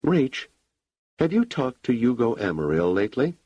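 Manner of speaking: a sudden shift of tone into a question; sudden intonation change. A narrator's reading. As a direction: pitch lifts on the name as the subject changes. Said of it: "a sudden change in the intonation".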